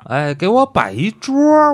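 drawn-out high amazed exclaim; astonished. Retold or imitated. Building astonished retelling.

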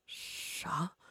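breathless whispered what; shocked gasp. A narrator's reading. Zhao shocked.

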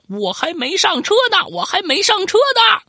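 put-on very high, loud yelling as an old man; old man chasing his tricycle, yelling high and loud; old man shouting. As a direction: holler it while running after the tricycle. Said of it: "边跑边喊".

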